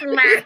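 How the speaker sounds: short limp groan, laughing; a mock dying groan; death cry. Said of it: "I love her death cry".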